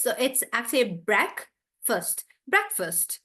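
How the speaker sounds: breakfast said as BREK-fuhst, short second syllable; correct breakfast. Shown as a demonstration. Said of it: "like that".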